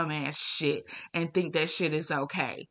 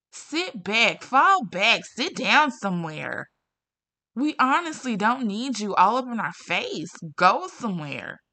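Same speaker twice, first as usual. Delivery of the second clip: fed-up telling off; 3 semitones higher, 4 dB louder than usual. Real, not acted. Telling harassers to back off.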